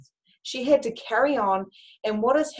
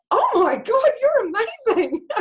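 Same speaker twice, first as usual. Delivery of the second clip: high, loud, laughing praise for the daughter; delighted praise; 14 semitones higher, 5 dB louder than usual. Retold or imitated. Mother praising her daughter's makeup, high and gushing. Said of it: "I was like".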